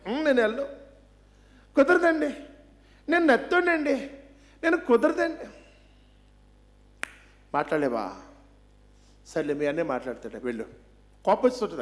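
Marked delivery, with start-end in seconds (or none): 0.1-5.5 pleading Moses. Retold or imitated. 7.5-10.7 God's reply. Retold or imitated. God answering Moses.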